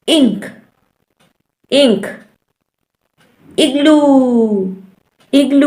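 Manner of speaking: "इंक" with a brief opening "ih"; short I examples. Shown as a demonstration. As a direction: stretch the end of "इग्लू". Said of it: "example क्या है?".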